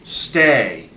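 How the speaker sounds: firm one-word commands; affirmative command voice. Shown as a demonstration. Vet giving a puppy her commands, affirmative voice. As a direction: give each word as a firm order. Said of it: "Those are in the affirmative voice".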